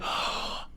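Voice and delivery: short shocked intake of breath; imitated gasp. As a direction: gasp like a horrified teammate. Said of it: "everybody was like".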